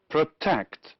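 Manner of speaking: protect, stressed on TECT; short first syllable, then a firm TECT in protect; stress on second syllable. Shown as a demonstration. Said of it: "mark the stressed syllable".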